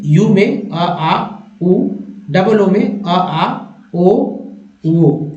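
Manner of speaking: slow, drawn-out vowel sounds one by one; vowel sound demo. Shown as a demonstration. Teacher sounding out the vowel sounds for students. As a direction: sound out each vowel slowly. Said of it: "बाकी जो उच्चारण है".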